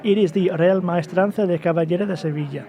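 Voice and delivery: rolled Spanish pronunciation of the name; Spanish accent. Shown as a demonstration. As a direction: say it like a local Sevillano. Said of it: "You sounded like this awesome, sexy".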